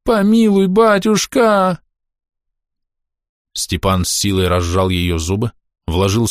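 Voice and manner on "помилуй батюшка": desperate plea. A narrator's reading. Woman begs for mercy.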